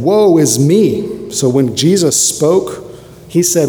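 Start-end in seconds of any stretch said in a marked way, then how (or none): 0.0-1.3 lamenting prophet. Acted. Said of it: "and I said".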